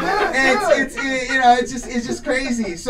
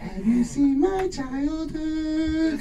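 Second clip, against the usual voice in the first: high, soft, pleading voice with slow drawn lines; a hushed, high, creepy plea; impression of a famous singer; 6 semitones higher, 5 dB quieter, much slower than usual. Comic playing a famous singer denying it, high and hushed. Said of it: "he's like".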